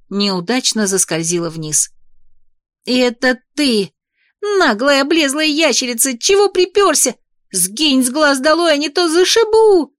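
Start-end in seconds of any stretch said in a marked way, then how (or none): 2.8-9.9 higher, squeaky, louder threat. Acted. Heroine squeaking threats at the arrogant dragon, higher and louder. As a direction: squeak out a tiny furious threat. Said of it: "пропищала я".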